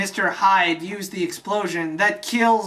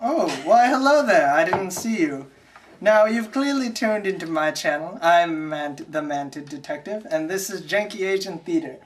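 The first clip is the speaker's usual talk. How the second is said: hammed-up formal presenter greeting; mock show host. Detective host welcoming viewers to the channel, mock-formal. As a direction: act caught unawares, then present grandly.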